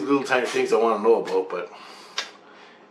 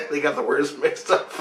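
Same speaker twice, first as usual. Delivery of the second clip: amused, slightly raised pitch through laughs; real laughing; 4 semitones higher than usual. Real, not acted. Dad explains the family's word mix-up, laughing. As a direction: chuckle through the words.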